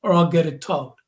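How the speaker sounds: put-on mumbled Bayonne accent, like marbles in the mouth; lightly voiced Bayonne neighbor. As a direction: caller imitating a Bayonne local, mumbled accent. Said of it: "sounds like they got marbles in their mouth".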